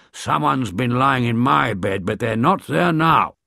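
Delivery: lightly voiced gruff papa bear; a hint of a big bear grumbling; growled. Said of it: "growled Daddy Bear".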